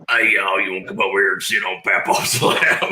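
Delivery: a hint of a leering old Papaw; dirty Papaw voice. Teasing his cohost with the dirty Papaw voice. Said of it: "she hates when I do the dirty Papaw voice".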